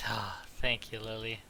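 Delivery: hushed whisper, barely voiced. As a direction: whisper so no one hears. Whisper pretending sleep.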